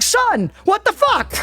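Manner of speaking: high, slow mock outraged dad; hammed-up baffled father; imitating dad. Dad reacting to the son's joke, mock outrage. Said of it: "My dad's like".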